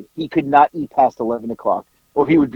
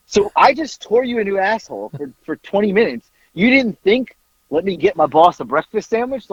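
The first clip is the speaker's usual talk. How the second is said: mildly indignant retold scolding, pitched up; retold chewing-out; 6 semitones higher than usual. Boss chews out manager over breakfast, retold with mild indignation. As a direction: scold him in higher-pitched disbelief.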